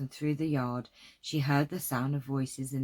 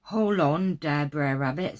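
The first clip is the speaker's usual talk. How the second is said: dialect call; 6 dB louder than usual. Acted. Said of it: "note the accent".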